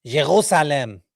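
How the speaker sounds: "Jerusalem" with a throaty uvular r; gargled r. Shown as a demonstration. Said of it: "that's how they say their R's".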